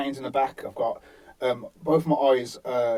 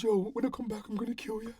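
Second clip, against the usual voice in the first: retold threat; 10 semitones higher, 7 dB louder than usual. Acts out attacker's threat while backing off.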